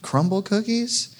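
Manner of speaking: thrilled disbelief at the gift; squealing with joy at the cookies; delighted. Retold or imitated. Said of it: "I thought".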